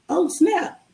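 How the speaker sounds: high-pitched imitation of being caught off guard; retold sudden realization. Boyfriend realizing whose surname it is, caught off guard. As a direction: mimic the moment it dawns on him.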